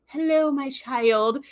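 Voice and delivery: slow, calm blessing voice; gently bestow it like a spiritual leader; serene elder. Retold or imitated. Imitating Kai Opaka's slow, calm blessing. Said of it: "And Kaiopaka's so, like".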